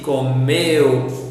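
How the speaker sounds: low, careful "Comeu", weight on the final "meu"; falling "Comeu", stressed at the end; stress on last syllable. Shown as a demonstration. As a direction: model "Comeu" for repeating, stretching "meu". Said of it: "Repeat with me".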